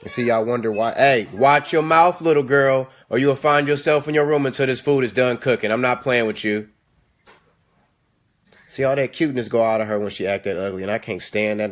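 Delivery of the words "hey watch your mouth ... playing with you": stern warning. Real, not acted. Warning daughter about her mouth.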